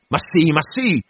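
narrated sob, acted as an outcry; sobbing cry. A narrator's reading. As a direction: cry it out as if wounded. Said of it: "con un singhiozzo terribile, forte, animalesco".

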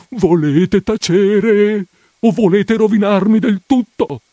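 frantic hushing. Acted. Priest frantically silencing his housekeeper, desperate scold. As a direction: shout her down in panic.

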